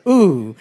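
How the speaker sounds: short, impressed ooh from the crowd; appreciative ooh. Shown as a demonstration. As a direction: let a little ooh slip like it landed.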